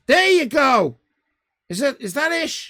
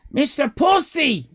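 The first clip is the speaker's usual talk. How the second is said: announcer shout; 5 semitones higher, 4 dB louder than usual. Pretend. Repeating the name.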